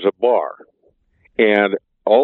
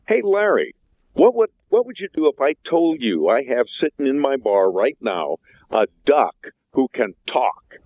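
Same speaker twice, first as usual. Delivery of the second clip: starts much higher and eager, then settles; bursting to share the news; excited phone call; 5 semitones higher than usual. Acted. Bartender excitedly phoning circus friend.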